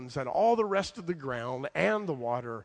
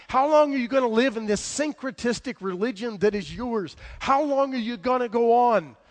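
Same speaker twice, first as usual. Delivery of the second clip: high, raised preaching voice, building; impassioned challenge; 8 semitones higher, 6 dB louder than usual. Acted. Elijah confronts wavering Israel over two gods, impassioned challenge. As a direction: press each question harder and louder.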